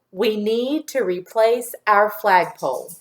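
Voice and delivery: slow, evenly spaced dictation sentence. Shown as a demonstration. Teacher giving a sentence to say after me, slow dictation. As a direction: say it slowly for repeating, word by word. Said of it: "Say that sentence after me".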